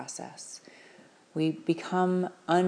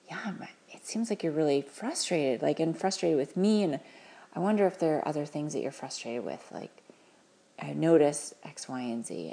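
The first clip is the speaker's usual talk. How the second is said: gentle, soft empathy. Shown as a demonstration. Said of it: "just being really gentle".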